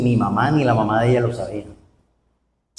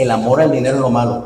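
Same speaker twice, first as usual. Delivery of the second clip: quick first reading; faster than usual. Shown as a demonstration. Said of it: "interpretemos bien la Biblia".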